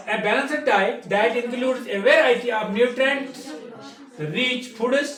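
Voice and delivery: reading the English definition slowly, word by word; teacher reading a textbook definition aloud; slow dictation reading. Shown as a demonstration. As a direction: dictate it slowly so the class can write. Dictates the balanced diet definition.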